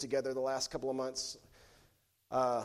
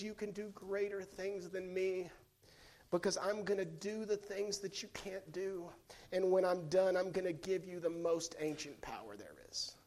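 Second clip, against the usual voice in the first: tender Jesus; 2 semitones higher, 6 dB quieter than usual. Acted. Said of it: "Jesus says".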